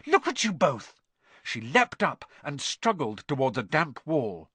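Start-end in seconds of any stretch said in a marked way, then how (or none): 0.1-1.0 high, alarmed exclamation; shrieking. A narrator's reading. Girl alarmed at the tangled boys, mild shriek. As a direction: scold them in a high panic. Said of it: "shrieked Hermione".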